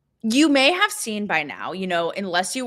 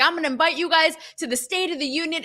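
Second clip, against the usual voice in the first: higher, quicker mock Trump voice; imitating Trump; 8 semitones higher, faster than usual. Trump phoning the hockey team, light imitation. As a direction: do a playful Trump on the phone. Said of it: "And he's like".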